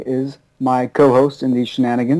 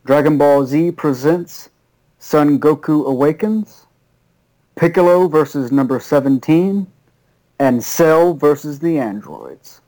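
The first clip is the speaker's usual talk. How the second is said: announcer voice. Pretend. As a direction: announce it like a fighting game trailer. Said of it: "Had to get my announcer voice on".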